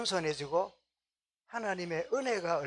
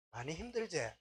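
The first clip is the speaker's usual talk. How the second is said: tender comfort; 8 dB quieter than usual. Retold or imitated. Deaconess comforting young wife.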